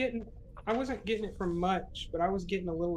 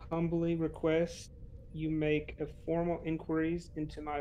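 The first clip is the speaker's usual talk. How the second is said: solemn formal address; formal speech. Acted. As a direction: read it like a courtly letter. Formal recorded message to matriarch.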